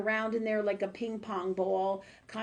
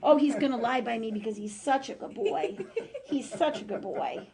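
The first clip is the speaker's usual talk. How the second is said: laughing praise; 2 semitones higher than usual. Real, not acted. Praising dog lying by her.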